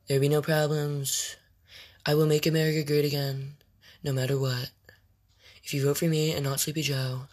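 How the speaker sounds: a hint of Trump at a rally, measured pauses; Trump impression. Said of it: "Oh, I can do Trump".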